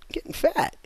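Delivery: conspiratorial whisper. Acted. Car executives whisper the secret, hushed. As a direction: lean in and whisper it.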